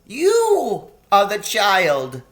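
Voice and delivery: high, anxious faun voice; a fretful, sorrowful faun. A narrator's reading. Tumnus confessing.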